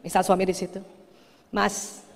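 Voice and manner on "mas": soft, low call to husband; sweet first call. Shown as a demonstration. Wife first calls her husband nearby, softly and sweetly. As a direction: call him gently, barely raised. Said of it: "istri Bapak yang cantik panggilan pertama".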